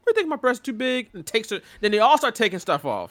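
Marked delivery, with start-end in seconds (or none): 0.1-1.1 imitated wrestling women. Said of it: "in the middle of the conversation goes".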